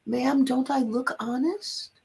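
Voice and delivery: retold wide-eyed sincerity, drawn out; dead serious. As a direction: plead it slowly in all seriousness. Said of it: "dead serious".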